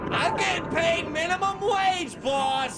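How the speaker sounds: high, slow goofy pilot voice; helicopter pilot voice. Acted. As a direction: play the dopey sidekick pilot. Pilot character complains.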